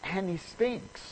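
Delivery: high, loud, worked-up protest; excited. Retold or imitated. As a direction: blurt it out in a panic about the smell. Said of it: "got all excited and she says".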